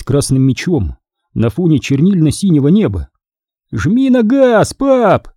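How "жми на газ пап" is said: much higher, slow eager urging; excited cry. A narrator's reading. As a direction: egg dad on like a thrilled kid. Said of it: "воскликнул Терри".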